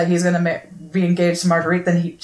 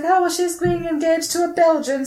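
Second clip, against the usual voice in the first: snide stepmother; 10 semitones higher than usual. Retold or imitated.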